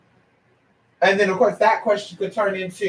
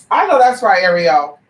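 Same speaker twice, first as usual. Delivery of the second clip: loud agreement; 6 dB louder than usual. Real, not acted. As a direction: cheer the viewer on, loud. Agreeing with a viewer.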